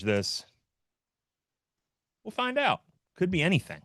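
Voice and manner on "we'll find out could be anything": booming high, godlike proclamation; voice of God. Acted. Host doing God's voice for the stream. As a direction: speak as God from above. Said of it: "That was the voice of God".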